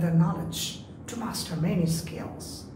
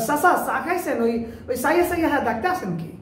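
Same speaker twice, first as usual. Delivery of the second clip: higher, fast Barisal dialect imitation; Barisal accent; 5 semitones higher, much faster than usual. A Barisal speaker playfully calling out to an uncle, in a Barisal accent. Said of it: "Barishal মানুষ চ বলতে পারে না".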